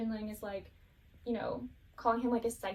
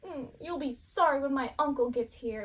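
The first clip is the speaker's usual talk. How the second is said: sulky threat; 3 semitones higher, 5 dB louder than usual. Retold or imitated. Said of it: "trying to get up, but he can't".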